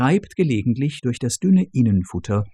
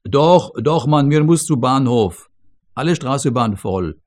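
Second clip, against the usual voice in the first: loud insisting; 2 semitones higher, 4 dB louder than usual. Acted. Couple insists in broken German.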